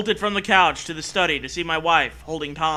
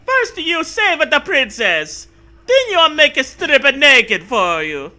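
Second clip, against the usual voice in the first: giddy high mock; 9 semitones higher, 7 dB louder than usual.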